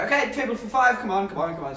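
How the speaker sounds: hint of a brisk waiter. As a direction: lightly mimic staff herding guests in. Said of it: "eventually they go".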